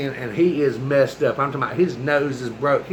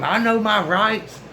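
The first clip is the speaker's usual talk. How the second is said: high, slow, drawn-out mock protest; YouTube guy imitation; 7 semitones higher, slower than usual. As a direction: mimic a viral video protester, stretching each word. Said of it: "Like that guy on YouTube".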